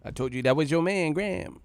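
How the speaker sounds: a rapper's skit line. Retold or imitated. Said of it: "that D M X skit".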